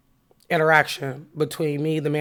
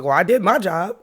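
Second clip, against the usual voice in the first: mildly heated, louder comeback; retold upset; 3 semitones higher, 5 dB louder than usual. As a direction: push back at the manager, a touch upset. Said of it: "so I'm getting upset".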